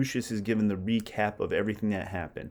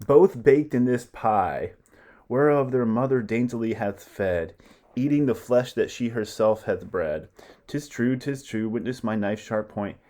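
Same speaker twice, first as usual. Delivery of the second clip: gloating declamation; 3 semitones higher, 5 dB louder than usual. Acted. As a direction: savour the grisly reveal. Titus reveals the pie.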